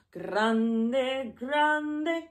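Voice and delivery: loud, stretched word; big voice. Shown as a demonstration. Teacher showing grande in a loud, big voice. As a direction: make grande sound huge. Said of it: "big and small".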